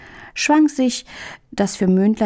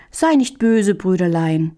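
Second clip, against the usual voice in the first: calm the angry brother gently; gentle reply. Acted. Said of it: "erwiderte Hähnchen sanft".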